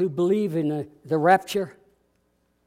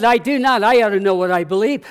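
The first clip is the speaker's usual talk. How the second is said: indignant retort; 3 semitones higher, 9 dB louder than usual. Retold or imitated. Atheist insists in retold argument.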